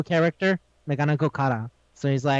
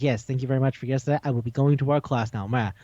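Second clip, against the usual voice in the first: formal; 4 semitones lower, faster than usual. Retold or imitated. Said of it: "he's speaking really formal".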